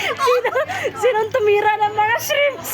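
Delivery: laughing. Real, not acted. Laughing accusation over eaten shrimp.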